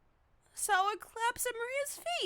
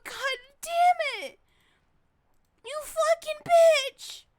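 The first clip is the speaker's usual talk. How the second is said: angry cursing; 8 semitones higher, 7 dB louder, slower than usual. Real, not acted. Player cursing the shooter.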